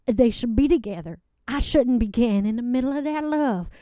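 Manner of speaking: a sweet country woman gushing about her date; a lovelorn Southern guest giggling through her story; Southern lady Loretta. Acted. Character guest Loretta on a show.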